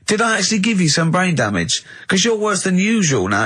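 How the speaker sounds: high, incredulous teasing; mock outrage. Real, not acted. Host mocking the co-host's clue in disbelief.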